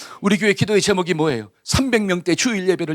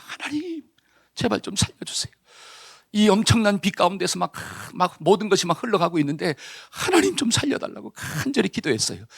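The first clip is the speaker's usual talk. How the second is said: desperate plea; 3 semitones higher, 4 dB quieter than usual. Acted. Man on roof begging God.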